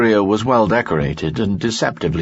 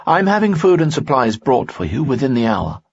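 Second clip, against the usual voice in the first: higher, resolute nobleman; a loyal noble standing firm, pitched up; Lanson's voice; 7 semitones higher than usual. Acted. Lanson speaks in story.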